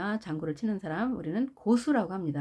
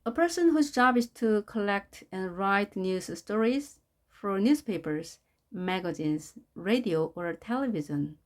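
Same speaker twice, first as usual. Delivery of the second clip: slow reading; much slower than usual. Shown as a demonstration. Teacher reads definition slowly.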